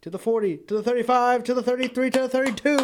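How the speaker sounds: rising excited call of the run; excited play-by-play. Real, not acted. Calling a live run on TV.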